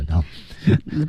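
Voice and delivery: ordinary delivery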